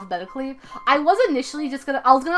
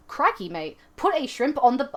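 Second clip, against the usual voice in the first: Australian accent; 3 dB quieter than usual. Shown as a demonstration. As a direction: put on a mild Australian accent. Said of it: "like an awesome Australian accent".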